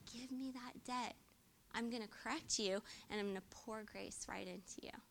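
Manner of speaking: soft, hushed promise, fading into a whisper; tender near-whisper. Retold or imitated. Jesus promising grace to the sinner, softly whispered. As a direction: draw the listener close and offer grace.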